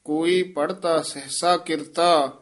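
ਕੋਈ ਪੜ੍ਹਤਾ ਸਹਸਾ ਕਿਰਤਾ then a clear pause; ਕਿਰਤਾ ਤੇ ਵਿਸਰਾਮ; pause after ਕਿਰਤਾ. Shown as a demonstration. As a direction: stop briefly after ਕਿਰਤਾ. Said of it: "ਇੱਥੇ ਵਿਸਰਾਮ ਹੈ".

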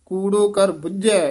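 falling close on ਬੁੱਝੈ, then a stop; rest after ਬੁੱਝੈ. Shown as a demonstration. Teacher marking for students a full rest after ਬੁੱਝੈ. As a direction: let ਬੁੱਝੈ fall and rest. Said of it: "ਇੱਥੇ ਵਿਸਰਾਮ ਹੈ".

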